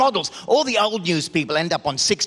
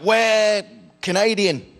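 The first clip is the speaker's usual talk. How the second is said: fake Canadian; 3 semitones higher, slower than usual. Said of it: "they're like".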